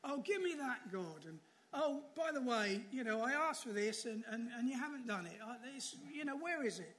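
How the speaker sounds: hammed-up spoiled asking of God like a genie; demanding prayer. Preacher mimics a congregation treating God like a genie, mock demanding. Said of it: "we rub the lamp and say".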